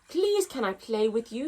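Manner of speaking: big loud voice. Acted. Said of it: "in a big, loud voice".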